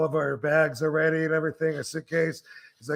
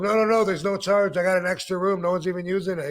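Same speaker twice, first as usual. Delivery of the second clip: insistent; 5 semitones higher, 4 dB louder, faster than usual. Retold or imitated. Fonzie insisting on free room.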